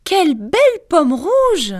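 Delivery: put-on old lady voice; old woman voice. Disguised queen tempts Snow White with the apple. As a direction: sweet-talk her like an old woman.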